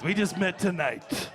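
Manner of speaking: slow and sly, letting the meaning land; knowing, slow repeat. Shown as a demonstration. To the crowd, a slow sly repeat of the line. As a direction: drag it out with a knowing wink. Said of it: "That's exactly what that means".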